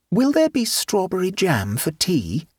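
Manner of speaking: high, sweetly innocent question; innocently. A narrator's reading. Boy asking the trapped aunt, innocently. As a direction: ask all innocence, hiding the trick. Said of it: "asked Nicholas innocently".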